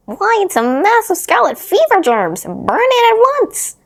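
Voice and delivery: high, loud, brusque doctor; the doctor's voice. A narrator's reading. Doctor ordering the bunny burnt, high and loud. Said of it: "said the doctor".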